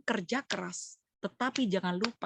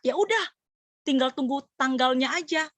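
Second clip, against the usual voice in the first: sarcastic mock; 4 semitones higher, 5 dB louder than usual. Mocking careless believer quote.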